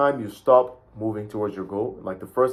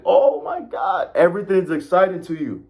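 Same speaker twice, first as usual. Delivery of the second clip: excited gasp; 7 semitones higher than usual. Pretend. Immigrant just landed in Canada, overjoyed and shouting in wonder. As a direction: gush like a newcomer seeing Canada.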